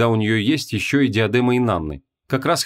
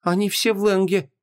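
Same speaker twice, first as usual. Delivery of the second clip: lost reply; 8 semitones higher than usual. A narrator's reading. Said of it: "растерянно ответила Ванесса".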